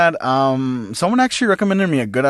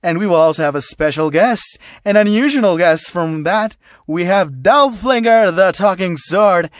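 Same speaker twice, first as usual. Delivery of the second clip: loud announcer; 5 semitones higher, 4 dB louder than usual. Acted. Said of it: "President Mike saying".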